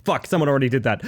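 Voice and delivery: usual speaking voice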